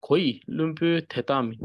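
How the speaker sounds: Koi, lun, bu split apart; one syllable at a time; syllable reading. Shown as a demonstration. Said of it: "this is syllable reading".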